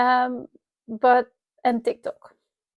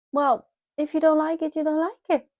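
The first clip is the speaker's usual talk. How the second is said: higher, shrugging off critics; defiant; 5 semitones higher than usual. Real, not acted. To critics of her accent, breezily defiant. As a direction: brush off the haters, unbothered. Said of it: "with me feeling powerful".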